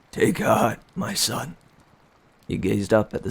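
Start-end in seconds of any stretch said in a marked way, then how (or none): 0.1-1.6 comforting father. Acted. Wounded father comforts son.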